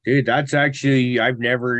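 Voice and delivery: real surprise at a good tip; impressed. Real, not acted. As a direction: blurt it out, genuinely struck by the idea.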